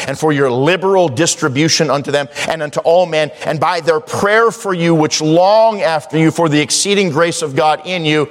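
high, ringing scripture delivery; preaching. Real, not acted. Preacher declaring God is able, high emphatic preaching. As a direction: preach it out, stretching the key words. Preaching verse at full force.

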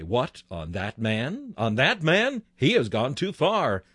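a hint of a sneering devil, rising in disbelief; mock devil's taunt. Preacher voicing the devil who scoffs at a sinner, lightly sneering. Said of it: "The devil may say".

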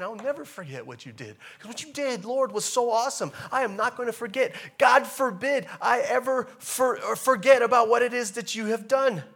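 loud, high, fervent thanks to the Lord; fervent praise. Acted. Preacher voicing the psalmist praising God, loud and fervent. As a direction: lift it up in praise.

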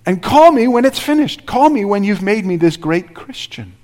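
high, sarcastic call me when it's finished; a believer mockingly waving God off. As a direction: toss it off as a sneering demand. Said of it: "It's like we say".

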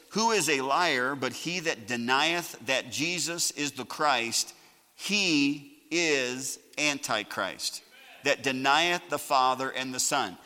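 slow, measured Bible reading; scripture reading. Real, not acted. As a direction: read the verse out deliberately with weighty pauses. Reads the verse aloud.

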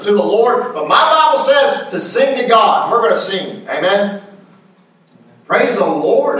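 rhythmic, insistent preacher cadence; fervent preaching. Real, not acted. Preacher rallying believers against naysayers, fervent preaching. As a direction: build the repeated phrases with conviction.

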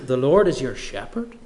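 The Lord is your shepherd? asked in doubt, rising on shepherd; incredulous question. Retold or imitated. A doubter questions David's claim, incredulous rising tone. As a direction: throw "your shepherd" back at him in disbelief. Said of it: "that person saying".

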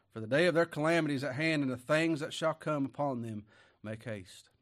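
fast, loud proclamation that eases off; preaching. Acted. Preacher warning the congregation of coming calamity, fast and loud. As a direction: rush the warning out, then settle. Scripture quote continued.

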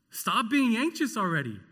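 loud, high, scolding snap; mock an impatient parent at a scared child. Parent scolding a frightened child, loud and harsh.

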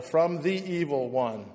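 "the" drawn out slowly and leaned on; slow down and hit "the" in "from the evil one"; stress on the article. Shown as a demonstration. Preacher stressing the article "the" for his hearers, slow and pointed. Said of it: "but it's a definite article".

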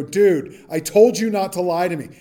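mildly fed-up dude scolding a liar; a touch of Southern California exasperation; exasperated Southern California dude. Acted. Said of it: "They're all from Southern California tonight".

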